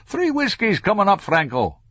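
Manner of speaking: high, cheery barman's call; cheerful singsong. A narrator's reading. Barman answers Franco's order, cheerful singsong. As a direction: sing the order back cheerfully. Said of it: "sang cheerfully".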